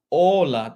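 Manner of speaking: HOLA said with a silent H, as "OH-la". Shown as a demonstration. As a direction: say "hola" starting straight on the O. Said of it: "this is how you pronounce it". ("hola" with no H sound)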